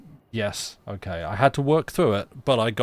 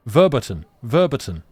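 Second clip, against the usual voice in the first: louder shout in bad German, stressed up front; terrible German; 2 semitones higher, 8 dB louder than usual. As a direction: shout it in deliberately botched German. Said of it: "Sorry, terrible German".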